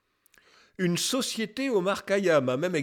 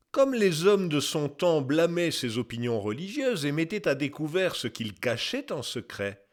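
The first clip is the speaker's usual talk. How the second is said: put-on measured, slightly declaimed reading of an old text; lightly declaimed quotation. Narrator quoting an old scholar's testimony, lightly declaimed. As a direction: read it out as a formal testimony. Reads a second testimony aloud.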